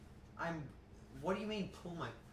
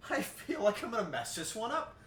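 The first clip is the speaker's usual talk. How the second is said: normal talking voice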